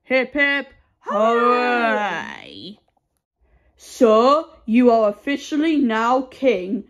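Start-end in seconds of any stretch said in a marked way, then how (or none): 0.0-2.8 hooray cheer. Acted. Third cheer, drawn out.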